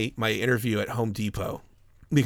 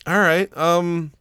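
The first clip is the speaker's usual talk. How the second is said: giggling through it; 9 semitones higher, 5 dB louder than usual. Retold or imitated. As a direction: try to stay serious but keep cracking up. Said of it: "Yeah, I was giggling".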